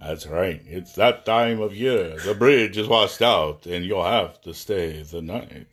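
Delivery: slow, ominous horror host; booming echoing villain monologue. Acted. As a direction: lay out the dread slowly. Spooky host sets a horror scene.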